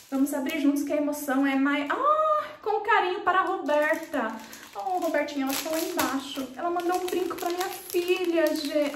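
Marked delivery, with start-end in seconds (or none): none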